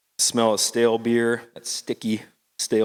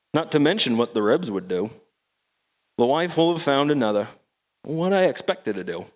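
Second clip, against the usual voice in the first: put-on old Maine fisherman's accent, recited. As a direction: rhyme it out in a thick Maine accent. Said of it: "that accent".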